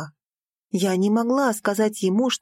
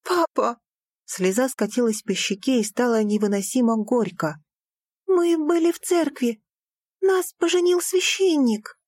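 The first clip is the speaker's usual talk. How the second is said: cling to the truth; tearful insistence; 4 semitones higher than usual. Acted. Daughter to father, tearfully insisting.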